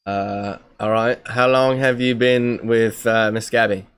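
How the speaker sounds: put-on English accent, slowed down; casual mock-English delivery. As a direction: ask it in a fake English accent. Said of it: "what is that accent you're doing?".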